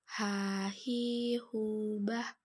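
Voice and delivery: "Ha, hi, hu, bah" dengan h dari tengah tenggorokan; huruf ha. Shown as a demonstration. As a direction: desahkan h tenggorokan pada "bah". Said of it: "dikeluarkan dari tengah tenggorokan kita". (h tengah tenggorokan pada "Ha, hi, hu")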